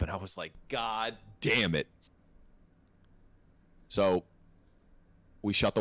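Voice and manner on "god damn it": retold exasperation. Retold reaction to cleanup order.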